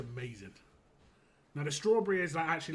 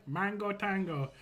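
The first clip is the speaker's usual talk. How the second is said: a playful, slowed mock Jamaican accent on "Mango tango"; lightly put-on Jamaican lilt, drawn out; 5 semitones higher, 4 dB louder, slower than usual.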